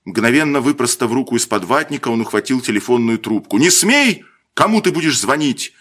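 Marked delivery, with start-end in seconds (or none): 3.6-5.7 higher, louder sharp command; stern order. A narrator's reading. Lieutenant stopping the boy from grabbing the phone. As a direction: bark it to stop him.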